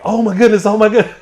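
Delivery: high, loud, laughing panic; retold panic. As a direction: squeal it out like the truck is pulling you under. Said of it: "And I'm like".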